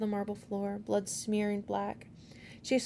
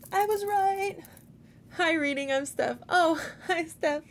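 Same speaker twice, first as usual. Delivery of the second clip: playful excited; 8 semitones higher, 6 dB louder than usual. Real, not acted. Playful chat with friend.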